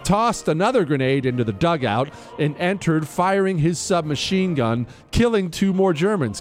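formal citation read over music; crisp military citation. Acted. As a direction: read it like an official military commendation. Continues reading the citation.

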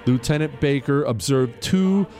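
formal citation read over music; crisp military citation. Acted. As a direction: read it like an official military commendation. Reads the medal citation aloud.

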